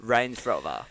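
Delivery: attempted Dutch "Range Rover"; Dutch accent. Shown as a demonstration. Host trying cohost's access phrase, Dutch accent. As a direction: lightly try a Dutch accent. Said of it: "to that accent".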